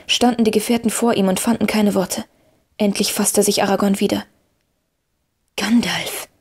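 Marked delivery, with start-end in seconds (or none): 5.6-6.3 Gandalf called out in astonished recognition; startled call. A narrator's reading. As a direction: Aragorn naming him in wonder. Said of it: "rief er".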